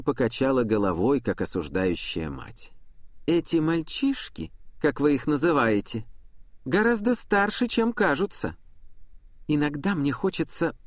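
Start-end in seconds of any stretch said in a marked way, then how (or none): 3.3-8.5 lightly voiced young girl. Girl speaks like a stern mother. 9.5-10.8 cut off mid word. Acted. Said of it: "Она прервалась на полуслове".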